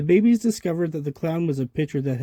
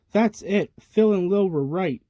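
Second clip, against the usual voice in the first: higher, louder angry outburst; angrily; 5 semitones higher, 3 dB louder than usual. Acted. Tommy fed up with his baby brother, angry outburst. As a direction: snap it out, fed up. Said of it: "Tommy said angrily".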